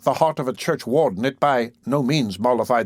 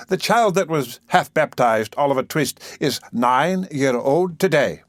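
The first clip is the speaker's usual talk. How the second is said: pompous beadle; 2 semitones higher than usual. Acted. Beadle announces slowly.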